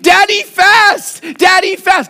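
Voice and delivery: high shrieking shout of "Daddy, fast!"; toddler shouting. Retold or imitated. Toddler son drags dad from the table, shouting. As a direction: yank dad up with the voice. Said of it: "pulling with his whole might".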